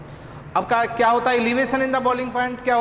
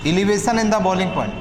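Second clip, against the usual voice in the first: slow, repeated phrases with long pauses; slow dictation; much slower than usual. Shown as a demonstration. Teacher dictating elevation in boiling point, slow dictation. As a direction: dictate piece by piece so students can write. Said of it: "लिखिए".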